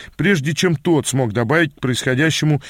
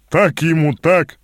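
slow, gleeful jeer without real laughter; a touch of chortle in the voice; chortling; 3 semitones higher, 4 dB louder, slower than usual. A narrator's reading. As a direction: crow it with mild glee. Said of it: "хохотнул Гэс".

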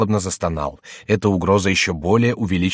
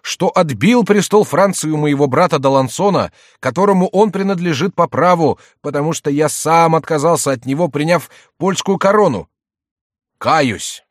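high, loud theatrical confession; jester posing as penitent; 9 semitones higher, 6 dB louder than usual. A narrator's reading. Jester confesses for the king, high loud mock penitence. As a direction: declaim each sin with mock remorse.

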